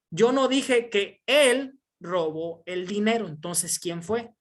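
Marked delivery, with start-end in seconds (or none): 0.1-3.3 "él" alargado y marcado; énfasis en ÉL. Shown as a demonstration. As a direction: subraya "él" despacio. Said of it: "Número tres". (acento enfático en "él")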